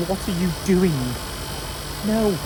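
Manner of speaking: high, loud panicked yelling; imitated panic. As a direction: mimic someone shouting in alarm. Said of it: "panic, being like".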